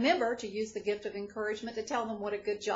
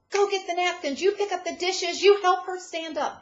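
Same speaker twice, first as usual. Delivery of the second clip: higher, louder barked orders taking charge; brisk take-charge leader handing out jobs; bossy leader; 9 semitones higher, 8 dB louder than usual. Retold or imitated. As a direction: snap out commands like the one in charge. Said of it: "That's the leader".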